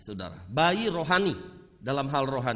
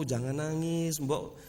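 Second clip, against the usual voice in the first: gentle coaxing; 4 semitones lower, 5 dB quieter than usual. Acted. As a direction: coax a crying child softly. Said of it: "Saudara mau deketin, kasih tahu".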